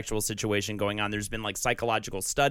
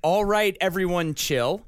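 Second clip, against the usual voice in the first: Arnold Schwarzenegger voice; 3 semitones higher than usual. Pretend. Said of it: "good Arnold Schwarzenegger".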